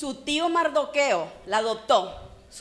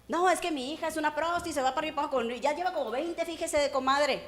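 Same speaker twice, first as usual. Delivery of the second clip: higher, chatty gossip to a comadre; mocking a gossipy mom; gossiping mother; 4 semitones higher, faster than usual. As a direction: dish the dirt on your own daughter. Gossiping mother mocked by preacher.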